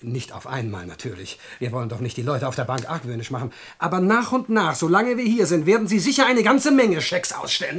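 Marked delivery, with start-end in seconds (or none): 3.8-7.8 gloating threat. Acted. Burglar threatens the old lady.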